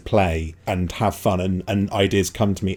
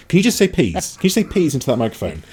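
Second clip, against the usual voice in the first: put-on coaxing his kids; 7 semitones higher than usual. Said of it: "with his dad going".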